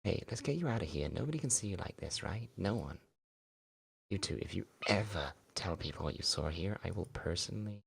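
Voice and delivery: put-on girl covering up a mistake, pleading; pleading schoolgirl. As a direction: coax him, nervous and guilty. Mia voiced, hushing threat.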